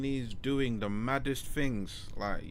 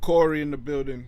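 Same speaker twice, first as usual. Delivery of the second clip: hype announcement; 4 semitones higher, 8 dB louder than usual. Real, not acted. Announcing guest arrival.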